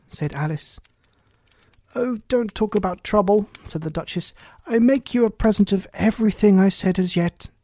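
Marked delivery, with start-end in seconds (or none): 1.9-7.5 higher, lightly voiced duchess; a chatty, fussy old duchess.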